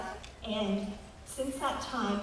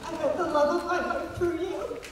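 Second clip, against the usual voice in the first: real emotional outpouring, higher pitched; heartfelt thanks; 7 semitones higher than usual. Real, not acted. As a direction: thank your hero, voice lifting with feeling. Moved fan thanks the actor.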